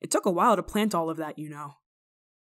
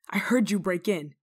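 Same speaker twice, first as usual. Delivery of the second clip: ordinary delivery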